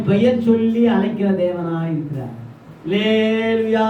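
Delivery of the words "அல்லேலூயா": long, drawn-out hallelujah; congregational call. Real, not acted. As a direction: stretch it slowly for the congregation to echo. Preacher prompts congregation's response.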